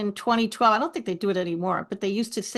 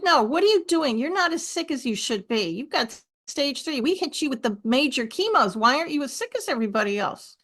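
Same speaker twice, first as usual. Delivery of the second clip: insistent nurse; 4 semitones higher than usual. Retold or imitated. Retelling a nurse demanding answers.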